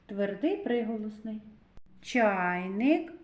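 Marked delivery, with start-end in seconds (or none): 2.0-3.1 "Чайник" with a drawn-out А; vowel А emphasized. Shown as a demonstration. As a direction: stretch the А in "Чайник". («Чайник» із протяжним А)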